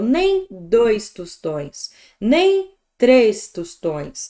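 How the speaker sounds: drawn-out, each word laid down; slow demo. Shown as a demonstration. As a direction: count it out slowly, like a list on the board. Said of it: "teacher demo".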